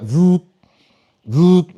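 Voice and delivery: imitated vibrating phone "voot"; phone buzz. Comic's phone ringing during conversation, buzzing imitation. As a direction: make short buzzing phone noises. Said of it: "like my phone".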